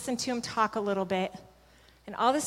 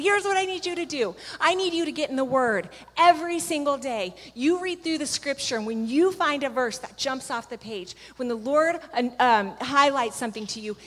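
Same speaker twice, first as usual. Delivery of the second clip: laughing, urgent charge; 2 semitones higher than usual. Retold or imitated. Laughing then urgent instruction.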